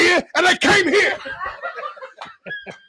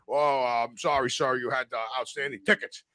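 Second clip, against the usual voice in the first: polite clerk voice; 10 dB quieter than usual. Retold or imitated. Imitating the clerk on phone.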